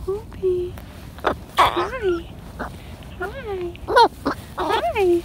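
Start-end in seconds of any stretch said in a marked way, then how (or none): none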